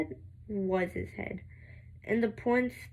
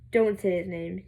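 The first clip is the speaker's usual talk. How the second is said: warning; 4 dB louder than usual. Acted. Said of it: "she warned".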